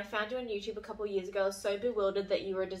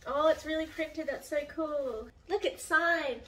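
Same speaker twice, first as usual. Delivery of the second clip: delighted; 6 semitones higher, slower than usual. Real, not acted. Opening the printed book.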